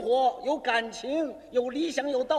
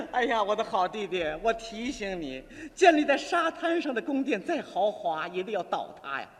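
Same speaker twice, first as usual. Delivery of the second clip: lightly acted measured admonishment, dropping lower at the end; sister talking poetically; 5 semitones lower than usual. Amused sister warns her brother in poet's language, measured. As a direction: counsel a dear brother with mock-poetic weight. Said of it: "他用诗人的语言表达".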